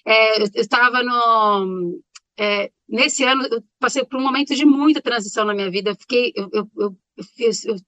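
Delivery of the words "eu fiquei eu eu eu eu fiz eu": choked up mid-sentence; stumbling after swallowing wrong; choking. Real, not acted. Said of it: "oh, meu Deus, engasguei".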